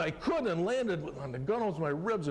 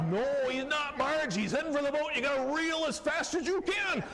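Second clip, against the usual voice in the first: retold excited shout at the angler; urgent shout; 11 semitones higher than usual. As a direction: yell across the boat at the fisherwoman to reel fast. Yelling to Marge as fish charges.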